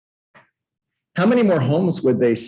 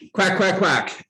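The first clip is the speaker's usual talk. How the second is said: duck quacks; 7 semitones higher than usual. Retold or imitated. Imitating ducks, higher pitch.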